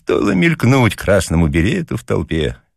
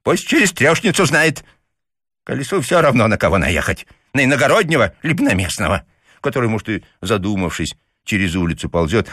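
put-on higher, curt old man lecturing; dry; 7 semitones higher than usual. A narrator's reading. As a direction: lay down the law, dryly. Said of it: "сухо сказал папаша".

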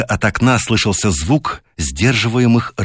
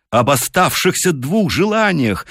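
quick; 8 semitones higher than usual. A narrator's reading. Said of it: "отвечала она быстро".

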